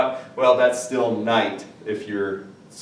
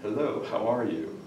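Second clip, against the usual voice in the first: quiet, stiff "Hello, how are you, sir?"; stiff formal greeting; 2 semitones lower, 9 dB quieter than usual. Shown as a demonstration. Meeting a girlfriend's father for the first time, quiet and stiff. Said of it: "first time that you meet".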